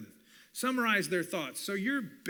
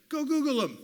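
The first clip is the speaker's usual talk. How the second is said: exasperated outburst; 8 semitones higher, 8 dB louder than usual. Real, not acted. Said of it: "rant outburst".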